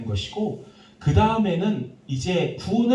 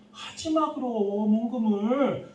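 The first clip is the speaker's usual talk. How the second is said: mock retort; 7 semitones higher, slower than usual. Pastor's retort to the youth.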